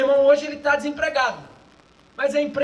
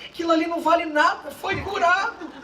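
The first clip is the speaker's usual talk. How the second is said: lightly voiced resentful complaint, higher, laughing; mock indignant remark; 3 semitones higher than usual. Pastor's jealous churchgoer complaining someone was healed, mild mock indignation. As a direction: grumble it half-laughing. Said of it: "Ele falou assim".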